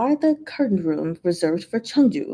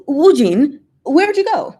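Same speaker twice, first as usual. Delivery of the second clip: raised, higher call across the cellar; 7 semitones higher, 7 dB louder than usual. Acted. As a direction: call out to find him. Guide calling for a wandered-off guest.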